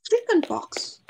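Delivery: high shocked exclamation; aghast at the word. Acted. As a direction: recoil at the news. Shocked at news of disease.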